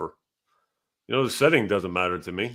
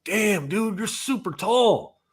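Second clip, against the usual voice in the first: imitating the guy; 8 semitones higher, slower than usual. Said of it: "And he's like".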